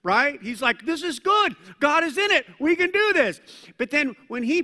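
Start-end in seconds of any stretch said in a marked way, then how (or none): 0.9-3.4 higher, louder, bright rallying cheer; cheerleader pep. Retold or imitated. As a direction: cheer them on like a pep squad. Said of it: "channeling his inner cheerleader".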